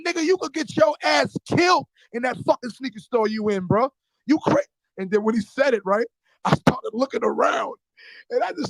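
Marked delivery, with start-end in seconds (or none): 0.1-4.6 higher, mock yelling scold; retold angry warning. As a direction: scold him like a worried older brother.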